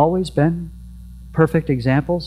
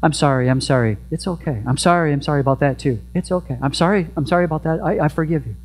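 mock apology exchange; faster than usual. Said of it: "repeat offender seven times".

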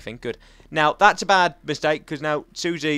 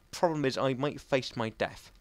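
whisper; 4 semitones lower, 8 dB quieter than usual. Real, not acted. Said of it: "whispered aside in game".

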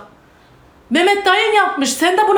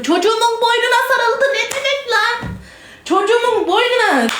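outraged disbelief; 5 semitones higher than usual. Real, not acted. Mother appalled that someone touched her child, outraged disbelief. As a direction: cry out in appalled disbelief, higher-pitched.

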